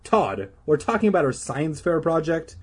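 impatient. Acted. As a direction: correct him impatiently. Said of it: "Beth said impatiently".

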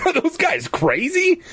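high, incredulous question; amused disbelief. Acted. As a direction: scoff at the idea. Luke laughing at sign.

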